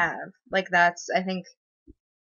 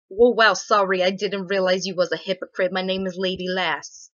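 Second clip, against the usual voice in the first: mock sarcastic troll; 5 dB louder than usual. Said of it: "streamer mocking a troll's comment".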